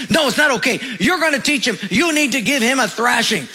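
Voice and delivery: lightly hammed-up scolding; mock ranting mother. Mother ranting at her husband about their son, mild mock anger. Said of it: "she starts to rant and rave".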